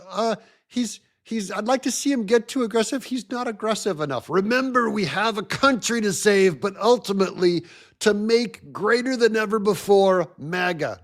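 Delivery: a hint of Trump, brisk and upbeat; Trump impression. Host mimicking Trump for his viewers, light impression. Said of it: "And Trump goes".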